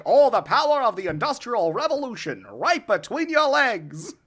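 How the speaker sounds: booming announcer read again. Shown as a demonstration. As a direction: pitch it like an old-timey announcer. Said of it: "announcer voice or the old-timey voice".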